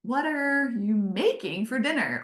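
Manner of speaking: "are" stressed and the question falling flat at the end; other reading. Shown as a demonstration. Showing husband the same text read snarkily. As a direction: read "What are you making for dinner?" the snarky way.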